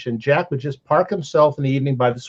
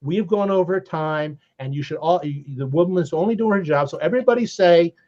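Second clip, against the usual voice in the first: put-on gentle teacher to kids; 2 semitones higher than usual. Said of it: "decides to make this a teachable moment".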